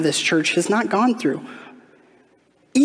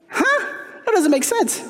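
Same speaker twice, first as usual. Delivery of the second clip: mock bewilderment; 14 semitones higher than usual. Preacher mocks angry Jonah.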